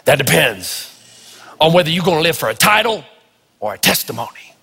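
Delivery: imitating an African-American preacher, lightly deepened; a hint of a deep-voiced rustic preacher. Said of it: "he'd say it in his deep, rustic voice".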